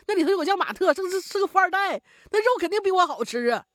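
high, loud stammering plea; frantic begging. A narrator's reading. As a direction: beg for your life in a panic. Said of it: "急忙哀求".

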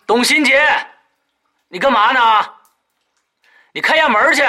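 high, loud yell; yelling across the room. Acted. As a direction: bellow toward the bedroom. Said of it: "朝卧室那边大吼道".

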